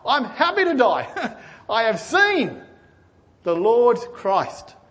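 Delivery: laughing through the words with joy; joyful laughing. Acted. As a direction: let the joy bubble into a laugh. Simeon overjoyed, ready to die.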